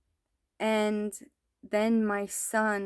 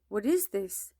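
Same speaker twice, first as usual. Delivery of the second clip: breathless whispered question; hushed, stunned whisper; horrified whisper. Retold or imitated. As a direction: whisper it in shock. Horrified mother in dream.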